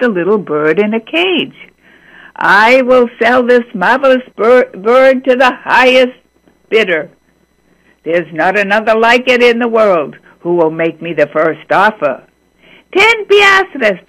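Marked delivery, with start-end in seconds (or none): 2.3-12.2 lightly voiced old man hawking a bird, a bit louder; auctioneer's call. 13.0-14.0 high, louder bid from the crowd; calling a bid. Acted. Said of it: "a man called".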